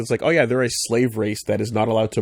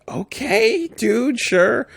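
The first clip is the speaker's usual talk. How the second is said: high mocking Grand Moff; 11 semitones higher, much slower than usual. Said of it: "And Grand Moff's like".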